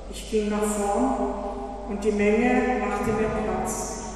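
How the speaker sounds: measured, earnest storytelling read aloud; story narration. A narrator's reading. Interpreter reading a Jesus story to the congregation, earnest storytelling. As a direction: tell the healing story to the congregation.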